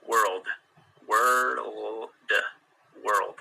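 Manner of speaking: "world" repeated, r and l blended; world drill. Shown as a demonstration. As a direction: say "world" slowly, r into l. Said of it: "they're very difficult".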